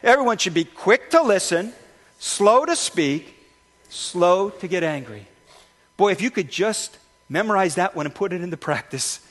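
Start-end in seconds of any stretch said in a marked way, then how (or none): 0.0-5.3 congregation recital, slow and loud. Shown as a demonstration. Pastor leading the church in a loud, slow recital. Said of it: "let's say it all together".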